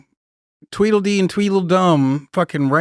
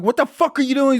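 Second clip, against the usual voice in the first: mock outraged yell; 9 semitones higher, faster than usual. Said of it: "I'm like".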